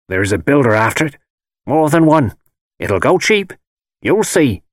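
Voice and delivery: put-on hint darkly as an old gypsy; old gypsy woman. A narrator's reading. Old woman tells of builder's plans, lightly voiced crone.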